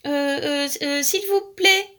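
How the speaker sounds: high, drawn-out hesitant plea; stammer, then stretch the plea; terrified. A narrator's reading. Alaric begging the frog, terrified. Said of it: "épouvanté".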